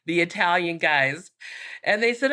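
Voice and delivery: ordinary talk, nothing marked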